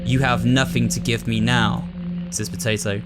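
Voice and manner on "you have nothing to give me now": evil mastermind, lightly voiced; a hint of a scheming villain; wicked voice. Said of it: "I do my, like, wicked voice for him".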